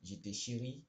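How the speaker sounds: halting line-by-line reading, slow in places; poem read aloud. Real, not acted. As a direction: read out the poem in short, separated phrases. Reads out generated poem. (lecture de poème, hachée et posée)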